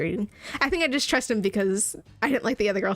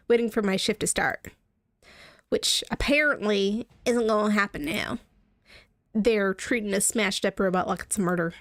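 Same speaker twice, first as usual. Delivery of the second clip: mild Southern twang; a light Southern accent. Acted. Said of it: "it's still freaking Southern".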